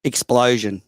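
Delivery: "Explosion." with an Australian accent, first vowel like "ih". Shown as a demonstration. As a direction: say "Explosion." the Aussie way. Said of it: "repeat a couple words in your Australian accent".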